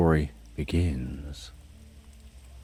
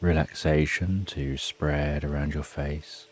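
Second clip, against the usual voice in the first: guided meditation. Acted. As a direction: lull the listener down gently. Guided sleep meditation countdown.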